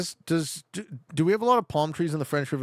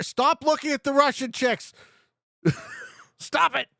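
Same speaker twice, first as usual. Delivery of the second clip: mock scolding; 13 semitones higher, 4 dB louder than usual. Real, not acted. Teasing teammate about Russian women.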